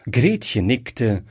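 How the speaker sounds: ordinary delivery, nothing marked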